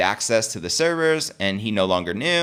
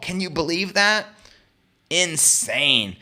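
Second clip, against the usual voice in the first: pitched up high in disbelief; incredulous; 6 semitones higher, slower than usual. Real, not acted. Vlogger asking viewers, high incredulous question. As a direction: ask it like you can't believe it. Vlogger reacting to O'Leary's testimony.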